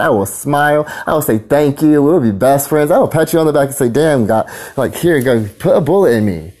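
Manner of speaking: high, loud daring yell; defiant shout. Real, not acted. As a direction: dare them, voice cranked up. Defiant rant daring police.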